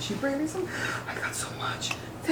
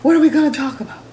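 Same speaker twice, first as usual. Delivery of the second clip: excited; 5 semitones higher, 5 dB louder, faster than usual. Retold or imitated. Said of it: "I'm like".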